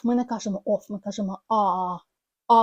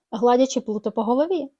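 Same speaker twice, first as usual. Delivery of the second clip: "гладячи Плуто по голові" run together smoothly; linked speech; 2 semitones higher, 4 dB louder, faster than usual. Shown as a demonstration. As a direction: glue "гладячи Плуто по голові" into one flow. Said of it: "Ми ж кажемо".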